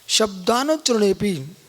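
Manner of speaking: slow, measured Sanskrit recitation; reciting a sutra. Shown as a demonstration. Teacher reciting a Sanskrit sutra to the class, slow and measured. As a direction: intone the sutra word by word, slowly. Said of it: "ये सूत्र बोल रहा है।".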